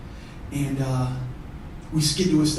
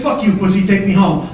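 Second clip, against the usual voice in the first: raised, loud jeer; defiant retort; 4 semitones higher, 8 dB louder than usual. Retold or imitated. Brother refusing the threat, loudly defiant. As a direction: throw it back loudly and higher.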